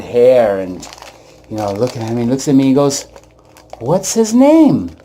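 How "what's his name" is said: put-on old man asking. Old man asks baby's name.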